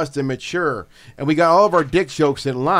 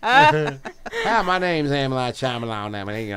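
Southern Shyamalan; slower than usual. Retold or imitated. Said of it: "I see him with South, Southern accent".

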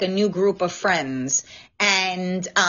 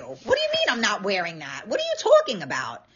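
indignant retort. Retold or imitated. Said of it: "I was like".

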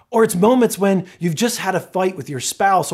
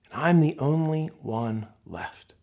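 lonely; 5 semitones lower, 4 dB quieter, slower than usual. Acted.

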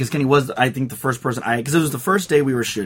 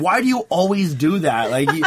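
imitating mom's scolding, pitched up with a laugh; a mock-exasperated mom nagging; mom mad at me; 6 semitones higher than usual. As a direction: son blows an interview, mom scolds him, half-laughing mock anger.

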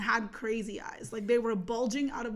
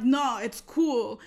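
louder, slow retold brush-off; firm refusal; 6 dB louder, much slower than usual. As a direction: stretch the refusal out, raised voice. Repeats refusal while shoving him off.

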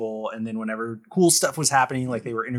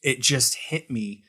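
choked up. Real, not acted. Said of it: "I'm getting choked up".

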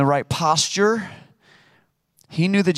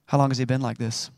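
softer, lower, caring question to a worried father; gentle bedside manner; 3 semitones lower, 4 dB quieter, faster than usual. Shown as a demonstration. Jesus turning gently to the father, calm bedside manner. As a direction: ask it gently like a calm paramedic. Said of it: "his bedside manner, listen to this".

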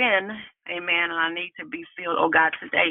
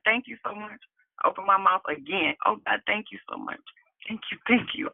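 softer, higher murmured praise; fervent thanks; 3 semitones higher, 3 dB quieter than usual. Real, not acted. Speaker thanking God after testifying, soft heartfelt gratitude. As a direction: give thanks softly, as a real prayer.

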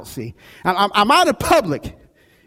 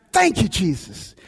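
quiet grateful prayer. Retold or imitated. Pastor thanking Jesus walking to his car, softly grateful. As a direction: breathe it out as a private prayer. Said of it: "it was a hallelujah moment".

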